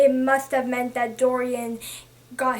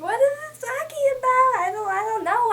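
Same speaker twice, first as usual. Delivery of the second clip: confused reaction; 9 semitones higher than usual. Retold or imitated. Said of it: "I was like".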